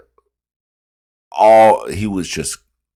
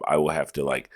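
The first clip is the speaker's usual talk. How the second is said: normal talking voice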